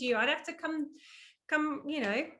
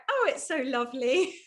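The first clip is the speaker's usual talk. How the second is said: put-on Southern accent. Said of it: "the accent from the South".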